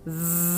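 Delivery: soft even buzz, voice on; steady zzz. Shown as a demonstration. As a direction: keep the zzz steady on a stream of air. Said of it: "the whole time you're doing the Z".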